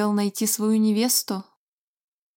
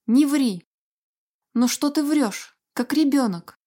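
scolding; 4 semitones higher than usual. Acted. Alice scolds liar.

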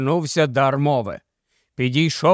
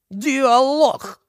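scornful, much higher echo of the word; contemptuous snort; 9 semitones higher than usual. A narrator's reading. The mayor mocks Gubl's idea, scornful and high. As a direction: sneer the word back in mockery. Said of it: "презирливо фиркнув мер".

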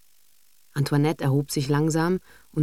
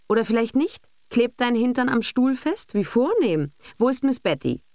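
sneering mother; 8 semitones higher than usual. A narrator's reading. Mother mocking the daughter.

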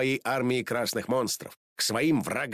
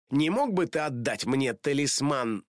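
grumbling; 3 semitones higher than usual. Acted. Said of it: "пробурчала".

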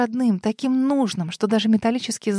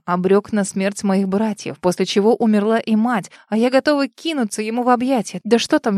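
usual speaking voice

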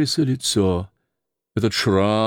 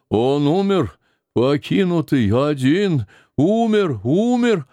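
put-on rising old woman's lament, higher on each умер; mild wailing; 6 semitones higher than usual. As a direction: cry out умер as grief breaks through. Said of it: "Она громко зарыдала". (нарастающий плач, умер всё выше)

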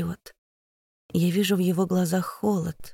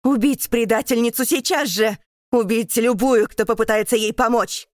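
loud, high furious screech; shrieking order; 5 semitones higher, 5 dB louder than usual. Acted. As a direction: emperor screeching for her death. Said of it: "визжит он".

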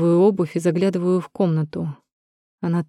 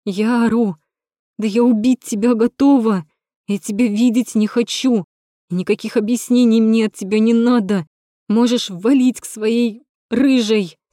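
furious yelling; 5 semitones higher, 4 dB louder than usual. Acted. Natasha rages at Rom, sending him away. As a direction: rage at him.

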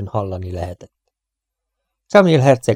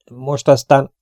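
higher, firm comeback; captain's retort; 5 semitones higher, 4 dB louder, slower than usual. A narrator's reading. Captain answering the prince, firm and higher. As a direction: turn the words back with resolve. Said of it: "mondta Swift kapitány".

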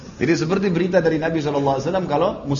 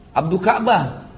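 slow, raised call of a name; stretched-out call, pitched up; 4 semitones higher, slower than usual. Retold or imitated. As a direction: hail him with drawn-out syllables. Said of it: "Dipanggil terus gitu".

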